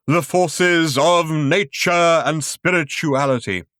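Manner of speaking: slightly hoarse sentiment. A narrator's reading. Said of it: "very slightly hoarse with wonderful sentiments".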